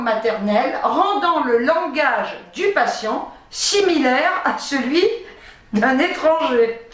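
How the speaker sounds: slow, measured reading of a medical text; reading aloud. Real, not acted. Vlogger reads the syndrome's symptoms to viewers, reading aloud. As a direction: read it out phrase by phrase.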